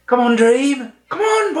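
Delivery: high, loud urging shout; race-track cheering. Retold or imitated. Film fan acts out Tony cheering on the horse, excited high shouting. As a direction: cheer a racehorse home at full voice.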